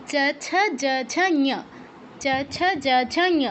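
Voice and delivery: চা, ছা, যা, ঝা, then ঞ with the tongue on the palate; palatal row drill. Shown as a demonstration. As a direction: recite the চ row and land ঞ where চা is made. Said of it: "সেই জায়গায় touch করে পাঁচ নাম্বারটা বলতে হবে ঞ".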